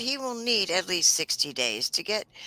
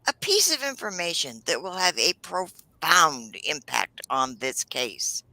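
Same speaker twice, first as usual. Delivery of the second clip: Pryor. Retold or imitated. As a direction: lightly imitate an overdramatic, whining attorney. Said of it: "I really can't do his whiny voice justice".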